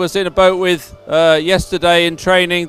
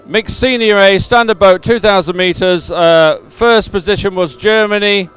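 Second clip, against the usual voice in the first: measured, emphatic results read; results announcement. Real, not acted. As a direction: announce each placing clearly to the crowd. Reads out race results.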